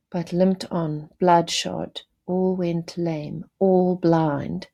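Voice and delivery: slow, measured reading of the war poem. Acted. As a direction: read it like a solemn recitation.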